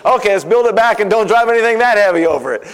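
a hint of a pompous official; mock engineers. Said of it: "then they say".

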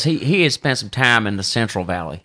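lightly put-on Central Valley accent; imitated Central Valley accent. Caddy showing how the electrician talked, imitated Central Valley accent. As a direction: mimic a man's Central Valley way of talking. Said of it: "He talked like this".

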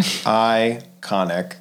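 slow, drawn-out "Iconic". Real, not acted. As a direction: stretch the word out admiringly. Drawn out admiring word.

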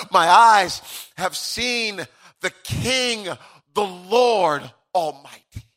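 slow, lifted, awestruck proclamation; Isaiah. Acted. Prophet beholding the Lord Almighty, awestruck proclamation. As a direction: declare it in drawn-out phrases with pauses. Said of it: "Isaiah says".

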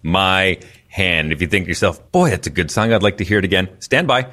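radio DJ announcing. Pretend. DJ introducing a song to listeners, smooth radio patter.

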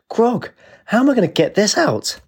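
high, breathy fairy whisper; tiny fairy whisper. Acted. Fairy dismayed at soaked dress.

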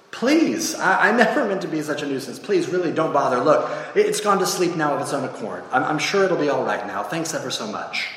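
lightly voiced apologetic ghost; pleading ghost. Ghost begs the angel not to bother, lightly flustered. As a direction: plead politely to be left alone, a touch hurried.

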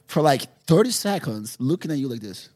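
high, loud, laughing through the story; can barely get the words out for laughing; giggling over a funny memory; laughing while telling. Real, not acted. Retelling a hilarious moment.

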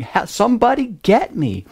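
high-pitched imitation of a child's cry for help; Rylan crying out. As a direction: act out a little girl calling for rescue. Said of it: "this voice crying out".

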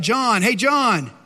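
acted holler, not full force; mild yell. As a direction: call to someone up in the loft. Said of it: "he yells out".

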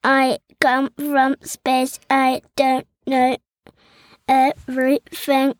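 slow, even robot voice. Shown as a demonstration. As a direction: speak like a space robot, slowly. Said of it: "I can speak in a robot voice".

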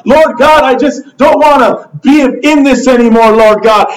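insistent acted prayer, plea upon plea; pleading. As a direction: beg God for a way out. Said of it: "We're pleading with God".

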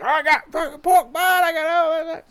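high, loud proud grill-man voice; high put-on Kenny voice. Friend retelling the grill guy bragging about pork, high put-on voice. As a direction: boast it in a squeaky high voice.

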